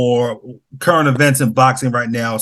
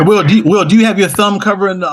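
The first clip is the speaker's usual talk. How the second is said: raised voice over a bad line; calling out; 3 semitones higher, 5 dB louder than usual. Real, not acted. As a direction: call his name louder to get through. Asking about the cutting-out mic.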